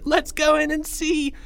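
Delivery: high, eager suggestion; excited kid. Acted. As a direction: egg your friends on in a kid's voice. Excited friend eggs on others.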